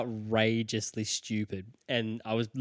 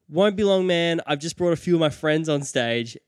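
raised, higher calling-out voice, acted; mock calling from afar; 4 semitones higher, 3 dB louder than usual. Will Ferrell calls to him from far backstage, mock calling out. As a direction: call out as if from far off, lightly. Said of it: "he's ages away".

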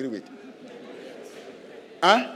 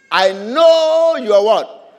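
slow and much louder, a scornful question; scornful accusation; 3 semitones higher, 10 dB louder, much slower than usual. Acted. Eliab taunts David about his pride, scornful. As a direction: scorn the little brother. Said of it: "Eliab scolding David".

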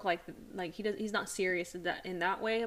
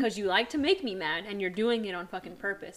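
louder, heated telling-off, half in fun; mock angry rant; 6 dB louder than usual. Wife retelling how she tells off her joking husband, mock anger. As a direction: scold him like you mean it, almost. Retold argument with teasing husband.

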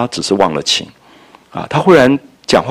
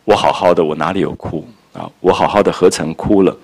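soft; 3 semitones lower than usual. Retold or imitated. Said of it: "她这个时候也特别的柔软".

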